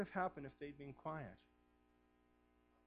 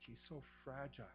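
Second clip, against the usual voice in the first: hushed preaching; 12 dB quieter than usual. Acted. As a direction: draw them close, almost hushed. Tender retelling of dying Jacob.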